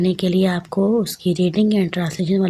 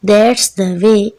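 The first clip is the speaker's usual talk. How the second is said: slow, deliberate poem recitation; poem read aloud; 4 dB louder, much slower than usual. Shown as a demonstration. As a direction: recite it slowly, word by word, for the children. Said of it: "ऊंची आवाज़ में पढ़ना". (कविता ऊंची आवाज़ में, धीरे-धीरे पढ़ते हुए)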